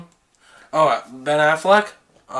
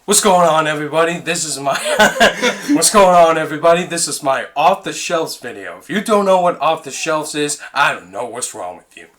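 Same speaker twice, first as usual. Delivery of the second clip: Cody Leach impression; faster than usual. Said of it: "Do a Cody Leach impression".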